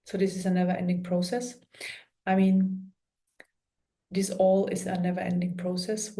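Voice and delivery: calm meditation guide with long pauses; guided meditation. Real, not acted. Healer guiding listeners through an energy clearing, calm guided meditation. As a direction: talk them gently through it, pausing often.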